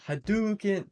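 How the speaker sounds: high-pitched Hadouken game call; Street Fighter sound effect. Shown as a demonstration. Streamer demoing a Street Fighter sound effect for chat, imitated attack call. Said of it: "I was thinking of making Sh-, Street Fighter sound effects".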